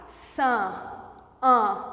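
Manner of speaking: San and an with a nasal A; a nasal vowel, held out; nasal vowel demo. Shown as a demonstration. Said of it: "Aquele A com tio".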